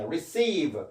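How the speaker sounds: "receive" with the stress on a lengthened "ceive"; stress on second syllable. Shown as a demonstration. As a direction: lean on the ee in "receive". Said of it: "여기 강세가 있습니다". ("receive"의 둘째 음절에 강세)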